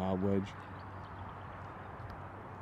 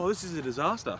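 dead serious; 5 semitones higher, faster than usual. Real, not acted. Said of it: "the most serious I've ever heard you".

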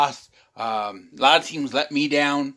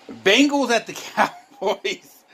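laughing announcement; 8 semitones higher, slower than usual. Real, not acted.

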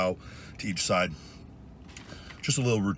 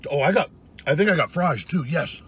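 excited; 7 semitones higher, 5 dB louder than usual. Real, not acted. Excited finding fries.

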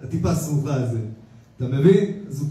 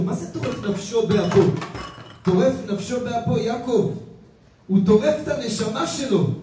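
higher, intense sermon voice, driving each phrase home; fervent preaching; 6 semitones higher than usual. Acted. Rabbi warns his congregation about anger, fervent preaching. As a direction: preach it like a warning from the pulpit.

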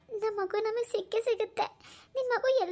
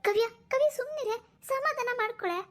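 high-pitched, urgent soothing; worried, raised-pitch appeal; alarmed pleading; 5 semitones higher than usual. Acted. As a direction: plead with her to calm down. Calming her hysterical daughter.

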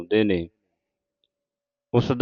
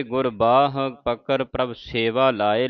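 slow line with a pause after ਲਾਏ; slower than usual. Shown as a demonstration. Teacher showing where to pause, slow. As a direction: recite slowly, then rest after ਲਾਏ. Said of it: "ਲਾਏ ਤੇ ਵਿਸਰਾਮ ਲਾਉਣਾ ਹੈ".

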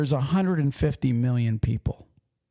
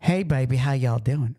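sweet Southern accent. Shown as a demonstration. Trucker demonstrating Southern charm to co-host, sweet Southern accent. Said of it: "That sounds sweet".

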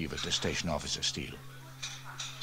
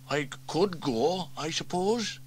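lightly voiced, stammering reluctance; offer, then back off; reluctant fireman; 8 semitones higher than usual. Elvis half-volunteers, reluctantly.

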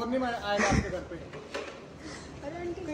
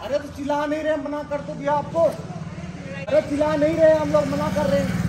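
heated argument; 5 dB louder than usual. Real, not acted. Arguing with aunty over noise.

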